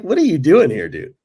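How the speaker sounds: high, loud, stunned asking; half-laughing disbelief at the star; incredulous question. Retold or imitated. Player asking Fernando why he's in Edmonton, loud incredulous.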